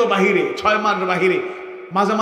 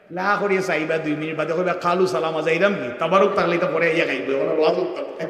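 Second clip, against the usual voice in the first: Sylheti dialect; 5 semitones lower than usual. Shown as a demonstration. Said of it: "Sylheti ভাষা করিতাম ওয়াজ".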